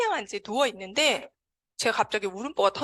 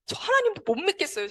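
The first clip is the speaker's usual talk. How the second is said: higher-pitched mild reproach; retold resentful plea; 8 semitones higher than usual. Crying patient reproaching God in prayer, mildly resentful and higher. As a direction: recount a hurt complaint, pitch lifted. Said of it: "제가 막 그렇게 원망을 쏟아댔어요".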